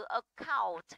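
"account" stressed on COUNT; second-syllable stress. Shown as a demonstration. Teacher gives example word, stress on second syllable. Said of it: "trọng âm sẽ rơi vào âm".

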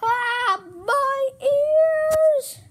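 high, loud yelp of pain; pained cry. Acted. A character whose ears hurt crying out loud in pain.

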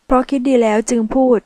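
chin-up defiant answer; defiant reply. Acted. Michelle answering the mafia man, defiant. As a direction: answer back proudly. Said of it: "หล่อนเชิดหน้าตอบ".

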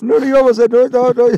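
loud, high laughing protest; loud laughing cry. Real, not acted. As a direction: laugh off the tears loudly. Emotional moment, laughing outburst. (risa fuerte y emocionada)

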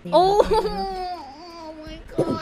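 laughing. Real, not acted. Laughing after near loss.

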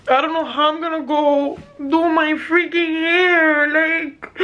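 frustrated, on the verge of crying for real; holding back tears. Real, not acted. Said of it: "I wanna stop crying".

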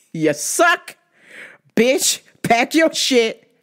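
mocking taunt. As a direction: gloat over the loser. Taunting the losing president.

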